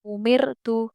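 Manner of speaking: उमिरतु with a light, thin ra; thin ra recitation. Shown as a demonstration. Teacher reciting उमिरतु with a thin ra. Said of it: "इसलिए हम इसको बारीक पढ़ेंगे".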